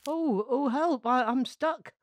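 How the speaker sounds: high, loud wail for help. A narrator's reading. Morris the mop stuck in pastry, wailing. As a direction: cry out stuck and desperate. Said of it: "wailed Morris".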